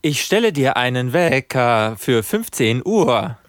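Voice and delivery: slow, lisping voice assistant; slushy lisp. Pretend. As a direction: lisp through every s, slowly. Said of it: "Hast du gerade gelispelt?".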